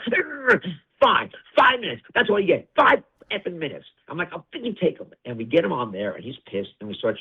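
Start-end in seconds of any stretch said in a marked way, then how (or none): 0.1-3.8 much higher, loud groaning "Urgh, fine"; sulky star giving in with a whine; grudging Rock impression. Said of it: "He goes". 4.3-5.1 sarcastic acceptance. Retold or imitated. Retold reply to Rock.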